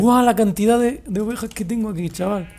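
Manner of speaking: high, loud amazed exclamation; excited. Real, not acted. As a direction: wow at the sight of them. Amazed at many sheep.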